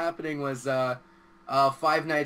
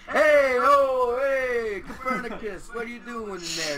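mock Italian; 7 semitones higher than usual. Claiming Italian roots, a hammed-up Italian yell. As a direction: bellow like a cartoon Italian. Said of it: "I'm Italian and Canadian".

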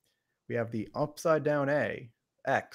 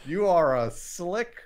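playful mock accusation; 2 semitones higher, 5 dB louder, slower than usual. Teasing student for jumping ahead.

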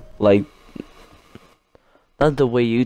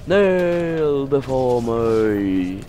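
catchphrase imitation; much slower than usual. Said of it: "as two B C would say".

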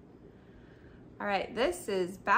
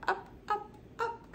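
rising excitement; 12 semitones higher, 4 dB quieter than usual. Acted. Reading Isabel going up.

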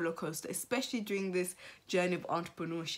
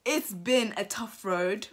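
fighting tears. Real, not acted. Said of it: "Guys, I'm so sorry about that".

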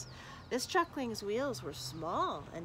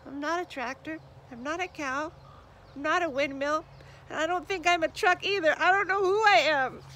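building from high and hurt to loud, faster wail; despairing truckling; 7 semitones higher, 9 dB louder than usual. Acted. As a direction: let the frustration spill over until she cries out.

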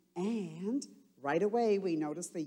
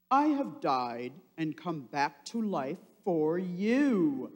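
a hint of a solemn Jesus, louder; lightly voiced Jesus; 5 dB louder than usual. Jesus telling the disciples he lives, lightly voiced. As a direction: proclaim it gently.

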